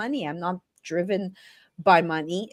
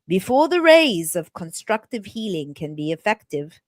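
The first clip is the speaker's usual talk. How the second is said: put-on British accent. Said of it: "I read in a British accent".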